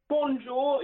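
"Bonjour" said anglicised, like pon-jour; an English speaker's bonjour; English-accented French. Shown as a demonstration. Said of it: "in English".

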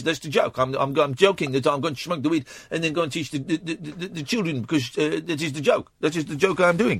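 mock Dutch accent, explaining the joke; halting mock-Dutch English. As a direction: keep a lighter put-on Dutch accent, stumbling. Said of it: "I'm a crazy Dutch guy".

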